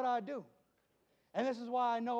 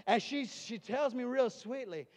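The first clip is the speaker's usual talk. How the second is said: ordinary delivery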